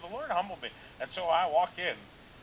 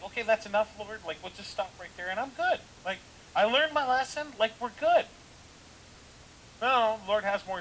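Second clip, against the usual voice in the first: high, loud, pleading begging; pleading with the Lord; 8 semitones higher, 7 dB louder than usual. Retold or imitated. Pastor begging the Lord to end the lesson, high loud plea. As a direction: beg heaven to call it done. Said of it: "want the Lord to just, like".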